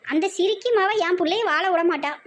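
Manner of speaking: high, hammed-up complaint; aggrieved wail. Mother blaming her daughter's mother-in-law, aggrieved wail.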